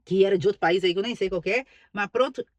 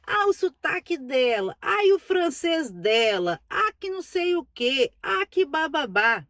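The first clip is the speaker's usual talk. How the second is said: mocking critics; 4 semitones higher than usual. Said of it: "recebeu tanta crítica".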